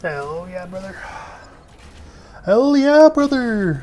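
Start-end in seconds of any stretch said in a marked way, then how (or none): 2.4-3.8 loud, high hyped-up catchphrase; hollering. Pretend. Gamer cheering a finished build, loud high holler. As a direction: holler it out, falling on the last word. Calls out catchphrase, much louder.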